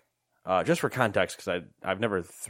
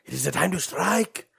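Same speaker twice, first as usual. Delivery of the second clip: high, theatrical battle call; rally the troops, hammed up and high-pitched; over-the-top call to arms; mock rallying cry; 9 semitones higher, 4 dB louder, slower than usual. Mock rallying war cry to gamers.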